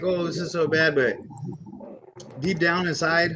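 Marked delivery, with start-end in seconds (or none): 0.0-0.9 whiny, crying, complaining tone. Retelling own complaints about cutting weight: imitating own whining. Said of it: "I know I'm crying, like".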